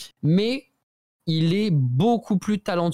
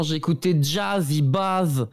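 lisp; slower than usual. Retold or imitated. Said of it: "il a un cheveu sur la langue, c'est pour ça que je le, je le fais comme ça".

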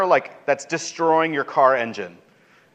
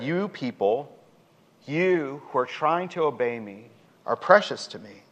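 tender; 6 dB quieter than usual. Acted. God tenderly addresses the faithful.

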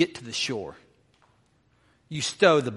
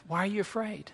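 soft, higher coaxing question; gently acted dad soothing a child; loving reassurance; 4 semitones higher, 7 dB quieter than usual. Dad asking his scared kid, tenderly. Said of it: "the better way to hear the tone".

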